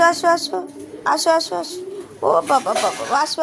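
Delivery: sing-song high call to coax pets over. Real, not acted. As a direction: lure the animals closer in a high, coaxing voice. Calling animals to come close.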